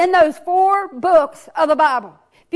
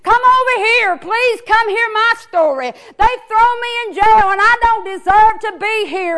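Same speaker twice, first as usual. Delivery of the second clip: higher pleading call; hollering prisoner; 4 semitones higher than usual. Acted. Prisoners hollering for the king, mild higher plea. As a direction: beg the king to hear you out. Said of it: "hollering for the king".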